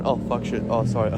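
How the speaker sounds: imitating a meek, apologetic curse; small swear, then a sheepish sorry; mock flustered swearing. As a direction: send up your own sheepish swearing. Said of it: "why did I swear like that?".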